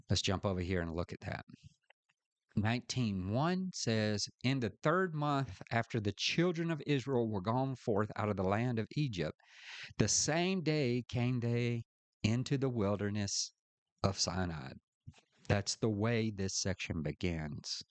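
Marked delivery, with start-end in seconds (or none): 4.4-14.7 raised, measured reading of scripture. Real, not acted. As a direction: read the verse out to a class. Reads scripture aloud.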